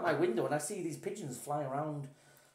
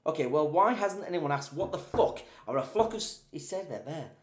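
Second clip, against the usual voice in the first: loud, worked-up questioning; exasperated, raised delivery; 6 dB louder than usual. Real, not acted. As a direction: get louder as you demand an answer. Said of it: "Keep your voice down".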